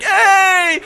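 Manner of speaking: loud, high fake-familiar yell; mock-delighted shout; hollered greeting. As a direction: greet her like an old friend. Plays along with girl.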